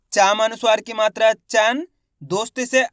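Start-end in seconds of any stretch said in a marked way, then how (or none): 0.1-1.9 "चन" held up on a rising tune after the spelling; spelling-out demonstration. Shown as a demonstration. Teacher showing students how to read letter by letter, spelling-out demonstration. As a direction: spell it out, then land on "चन" as one nasal syllable. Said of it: "देखिए किस तरीके से".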